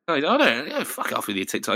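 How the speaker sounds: usual speaking voice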